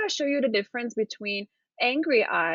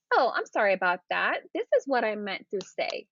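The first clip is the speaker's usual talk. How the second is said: calm apology. Shown as a demonstration. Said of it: "So just say".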